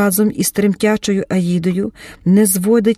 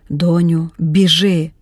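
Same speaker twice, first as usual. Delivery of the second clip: usual speaking voice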